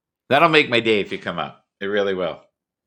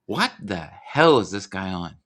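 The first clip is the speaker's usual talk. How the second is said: lightly voiced bewildered guest, higher; mock puzzled voice, pitched up; imitating a baffled guest; 10 semitones higher than usual. Voicing what the guest thinks of him, mock baffled. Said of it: "you know what he's saying right now".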